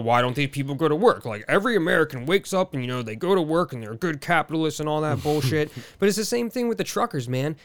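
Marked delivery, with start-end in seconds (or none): 0.0-5.7 mocking Fox News complaint. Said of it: "they're complaining about".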